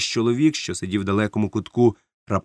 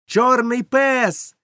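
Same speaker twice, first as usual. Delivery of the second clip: even higher, very slow shout, пес drawn out and falling; boy repeating the warning in a higher shout; higher alarmed shout; 13 semitones higher, 4 dB louder, much slower than usual. A narrator's reading. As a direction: cry пес out higher and slower. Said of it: "закричав я".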